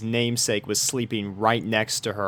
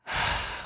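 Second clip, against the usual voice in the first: soft unvoiced sigh out; 7 dB quieter than usual. A narrator's reading. Rainbow settling in for the night, tired sigh. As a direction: let the breath go.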